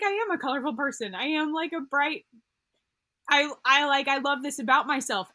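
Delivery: heartfelt self-affirmation, pitch lifted; getting emotional. Real, not acted. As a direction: say it with feeling welling up. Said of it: "I'm gonna get emotional talking about this".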